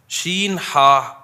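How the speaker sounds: شین ہا, each letter named slowly and apart; spelling out letters. Shown as a demonstration. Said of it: "شح جسے کہا جاتا ہے عربی میں".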